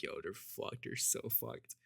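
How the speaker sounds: under the breath, nearly whispered; hushed retold aside. Friends behind him as they walk in, hushed.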